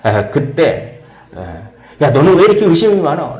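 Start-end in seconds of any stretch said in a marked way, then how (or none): 2.0-3.4 louder, higher mock scolding with a laugh; teasing reproach; mock rebuke. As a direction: scold a doubting friend playfully. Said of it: "라고 질책할 수가 있습니다".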